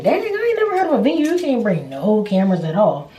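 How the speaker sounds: high, fast disbelief; can't believe the rule; incredulous. Retold or imitated. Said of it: "So I'm like".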